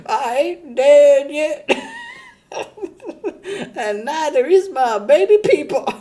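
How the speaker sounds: put-on high leering old-man voice with cackles; a dirty old grandpa bragging, laughing through it; creepy Peepaw. Peepaw bragging to a girl, high, leering and cackling. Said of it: "Peepaw's got".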